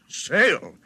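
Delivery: laughs the word out in disbelief; mock his idea with a laugh; amused, disbelieving laughter; scoffing laugh. Scoffing at George's sail idea.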